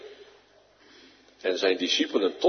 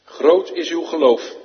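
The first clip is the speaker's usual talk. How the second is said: solemn exclamation; 5 semitones higher, 7 dB louder than usual. Acted. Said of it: "antwoordde Jezus en zei".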